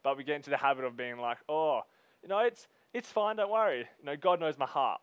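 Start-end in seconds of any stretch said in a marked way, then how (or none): 1.5-5.0 high, louder mock brush-off; breezy self-excuse. Preacher mimicking believers excusing what they say, breezily dismissive. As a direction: imitate someone waving it off.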